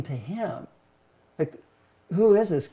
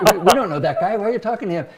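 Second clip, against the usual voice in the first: alarmed; 5 semitones higher, 5 dB louder, faster than usual. Retold or imitated. Father panicking at son's boldness.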